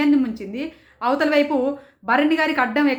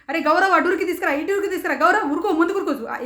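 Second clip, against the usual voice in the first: higher, urgent call with a laugh; imitated urgent shouting; 4 semitones higher than usual. Reviewer imitating Tanuja urging Gaurav in the game, laughing mock urgency. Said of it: "నేను గట్టిగా అరుస్తున్నానా".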